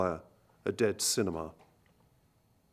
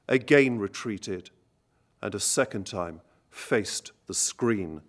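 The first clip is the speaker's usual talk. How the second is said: poetry reading. Acted. Lecturer reading a trench poem to the concert audience, grave and measured. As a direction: let the war poem land line by line, unhurried.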